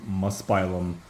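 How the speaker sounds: "Muspelheim" said as mus-PIE-lum; confident mispronunciation. Real, not acted. Naming a comic battle's location, confidently mispronounced as mus-PIE-lum. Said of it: "how confidently he said it".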